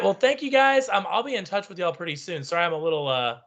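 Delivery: stuffy, congested voice; talking through a blocked nose; nasal voice. Real, not acted. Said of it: "nasally and congestified".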